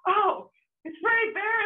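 high, slow sing-out to someone; imitated friend calling back. Voicing friend pointing out the camera.

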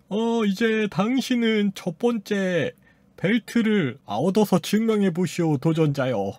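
put-on slow, solemn challenge in old-style speech; a hint of a stately announcer, drawn out; lightly voiced game master. Game master addressing the challenger, lightly acted solemnity.

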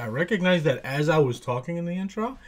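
rough just-woke-up voice; groggy morning voice. Real, not acted. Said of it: "crazy ass case of morning voice right now".

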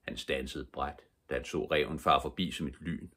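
ordinary delivery

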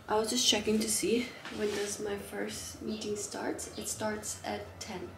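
soft whisper to herself. Real, not acted. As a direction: whisper it as a private aside. Checks meeting time, whispered aside.

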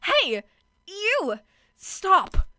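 put-on loud bratty pick-me girl calling out; ditzy pick-me girl voice, yelling stop. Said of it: "I'm gonna do a pick me voice".

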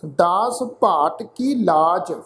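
slow, measured Gurbani reading; drawn-out words with pauses between phrases; scripture recitation. Shown as a demonstration. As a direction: recite the verse slowly, phrase by phrase. Recites scripture verse for a lesson.

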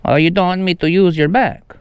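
questioning mock Italian lilt; Italian accent. Prankster refused the back to sign on, mock Italian accent. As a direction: act put out, in a fake Italian accent. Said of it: "uh, an Italian accent".

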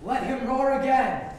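high, slow, bellowed repeat; roaring Duke. Acted. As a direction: roar it out like a lion. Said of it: "make the Duke say".

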